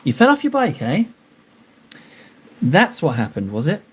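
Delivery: mock suspicious quizzing; skeptical voice. Shown as a demonstration. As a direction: let the disbelief show. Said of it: "That's my skeptical voice".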